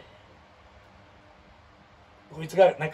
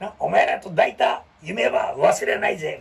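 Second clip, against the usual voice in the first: cool hero line; 2 semitones higher, 4 dB louder, slower than usual. Retold or imitated. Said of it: "かっこええやん".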